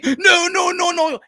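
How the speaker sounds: high, insistent shouted denial; emphatic shouted no. Real, not acted. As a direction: shout them down with no, no. Cutting off a wrong claim.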